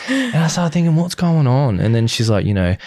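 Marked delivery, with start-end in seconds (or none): 0.9-1.8 high-pitched, baffled question; retold bewilderment. Recalling thoughts during partner's vows, retold bewilderment. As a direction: re-enact baffled disbelief, pitch jumping up.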